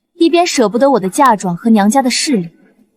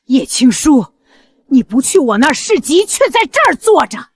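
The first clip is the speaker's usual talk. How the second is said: loud indignant scolding. Acted. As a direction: scold a disrespectful daughter-in-law. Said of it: "老夫人您的声音再大点儿".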